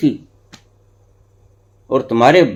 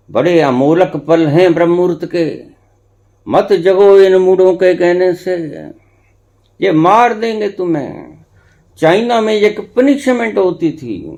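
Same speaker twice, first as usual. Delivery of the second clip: forceful preaching; 6 semitones higher, 4 dB louder than usual. Acted. Preacher warning against early rising.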